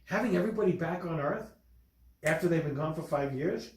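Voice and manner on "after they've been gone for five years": ordinary delivery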